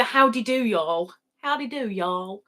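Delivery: light Southern American twang; lightly put-on Southern American greeting; Southern American accent. Shown as a demonstration. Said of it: "Southern American is the only accent that I can do".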